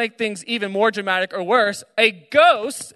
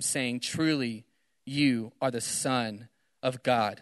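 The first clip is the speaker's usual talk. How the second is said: measured Bible reading, lightly dramatized; scripture reading; 2 semitones lower, 4 dB quieter than usual. Acted. Preacher reading the gospel to college students, measured scripture reading. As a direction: read the gospel aloud to a room.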